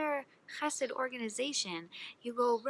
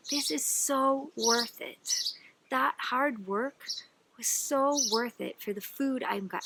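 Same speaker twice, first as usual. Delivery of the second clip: savoring; 2 semitones higher, slower than usual. Acted. Man savoring, slow.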